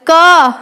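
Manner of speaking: "क" sounded from the throat; throat-made consonant. Shown as a demonstration. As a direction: practice demo of "क" from the throat. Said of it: "यहाँ से आवाज़ की ध्वनि निकल रही है".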